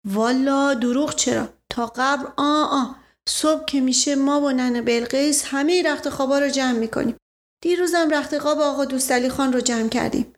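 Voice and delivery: account for it innocently to the inspector; humble servant. Acted. (نوکر ساده با صدای کمی زیر)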